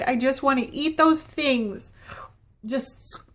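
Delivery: breathy secret whisper. Real, not acted. Whispered craving confession.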